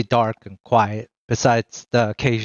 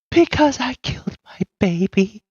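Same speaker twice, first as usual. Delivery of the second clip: high, hollow, unhinged voice; eerie confession; 11 semitones higher than usual. Acted. Madwoman confessing to the party, eerie and high. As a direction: confess it as if it were nothing.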